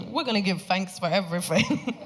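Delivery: imitated Cockney meditation guide; Cockney accent. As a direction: give thanks in broad Cockney. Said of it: "had a Cockney British accent".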